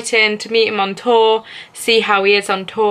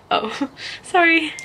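a higher "Oh" that breaks into a laugh on "sorry"; laughing apology; 7 semitones higher, 4 dB quieter than usual. Retold or imitated. Apologising to her friend for sounding Brummy, laughing. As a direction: giggle through a mock apology.

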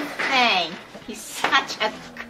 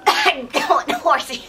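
slow, laughing as she's dragged; 3 semitones higher, 3 dB louder, slower than usual. Real, not acted. Pulled along by a strong dog, laughing. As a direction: laugh it out slowly.

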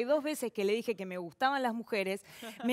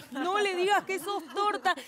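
"No le digas que sos torta" pushed higher and pressing; urgent repeat; 6 semitones higher than usual. Retold or imitated. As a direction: hiss the warning again, more urgent. Mom's message repeated, urgent.

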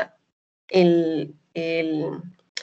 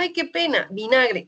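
embarrassed correction; 4 semitones higher than usual. Retold or imitated. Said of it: "Y yo le dije".

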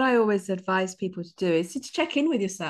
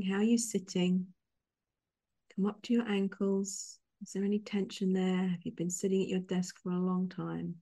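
guided meditation. Real, not acted. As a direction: lead them calmly through each breath, unhurried. Leads a guided breathing exercise.

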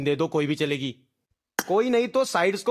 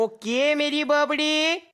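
slow sing-song catchphrase; 5 semitones higher, slower than usual. Acted. Catchphrase repeated.

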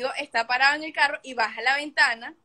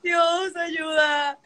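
higher, shouted, tearful plea to God; crying for help; 5 semitones higher, much slower than usual. Retold or imitated. The crow circles her, she cries out to God.

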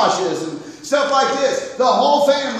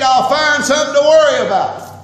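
loud preaching; 7 dB louder than usual. Real, not acted. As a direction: punch it out loud, the word worry leaning hard on "worry". Preacher repeats line, loud then calm.

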